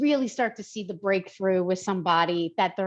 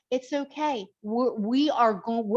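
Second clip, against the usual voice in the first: gentle, slowed-down comforting; reassuring. Retold or imitated. Trainer comforting a client who starts crying, reassuring.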